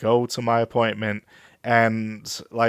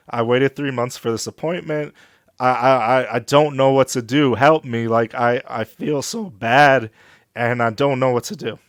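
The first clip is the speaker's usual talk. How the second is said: louder, pleading retelling of a breakdown; a touch of desperate tears, louder; retold crying plea; 4 dB louder than usual. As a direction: relive begging the front desk for help. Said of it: "I was literally crying at the front desk".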